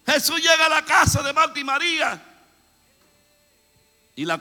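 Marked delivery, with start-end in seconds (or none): 0.1-2.2 loud, high sermon storytelling; fiery preaching. Acted. Preacher telling the Martha story to the church, loud and high.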